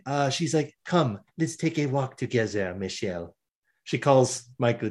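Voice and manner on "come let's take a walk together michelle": put-on French accent, softening at the end; lightly played French woman, falling away on the name; terrible French accent. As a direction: invite gently in a fake French accent. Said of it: "my terrible French accent".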